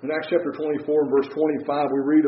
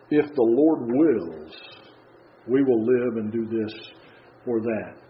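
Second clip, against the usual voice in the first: very slow, weighing "Lord"; slow solemn reading; 3 semitones lower, slower than usual. Real, not acted. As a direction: draw out each word reverently. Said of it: "quoting James, slowed".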